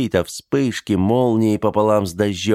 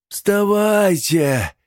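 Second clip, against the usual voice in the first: high, slow, drawn-out shout; shouting rise; 12 semitones higher, much slower than usual. Acted. The old man shouts to the dead to stand up, high and slow. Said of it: "крикнул старик".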